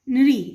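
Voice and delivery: नृ said as "nri", ending in an i sound; i-ending pronunciation. Shown as a demonstration. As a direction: end नृ on a clear "ee". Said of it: "इ से लगा हुआ sound निकलता है".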